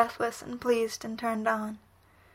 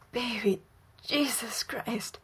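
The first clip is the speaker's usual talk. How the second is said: bitten off; 3 dB quieter, slower than usual. A narrator's reading. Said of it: "Bucky bites".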